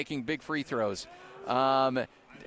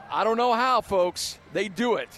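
amazed disbelief; 5 semitones higher, 5 dB louder than usual. Real, not acted. Host stunned by the escape.

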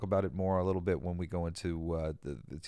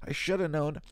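higher and louder, cracking; emotional exclamation; tearful outburst; 8 semitones higher, 4 dB louder than usual. Real, not acted. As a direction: let it burst out through tears. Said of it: "start crying".

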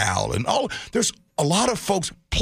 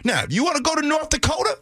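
ramp it up into a shout; building shout; 7 semitones higher, faster than usual. Real, not acted. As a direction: hype it up, then holler the punchline. Hyping up a punchline.

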